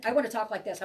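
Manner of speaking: rushed, hurried demo of chatter; rapid, jumbled talk; talking really fast. Shown as a demonstration. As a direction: race through the words like a scattered mind. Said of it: "I wanna talk really fast".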